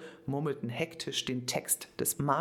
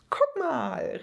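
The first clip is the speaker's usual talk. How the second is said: high, louder, thrilled shout; overjoyed; 12 semitones higher, 5 dB louder than usual. A narrator's reading. Little boy showing his golden hobby horse, overjoyed. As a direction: show off your treasure. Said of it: "rief Elias überglücklich".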